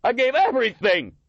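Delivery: high, loud cry with a breaking voice; maimed veteran crying out to the heckler. A narrator's reading. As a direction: let the voice crack on it. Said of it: "voice breaking".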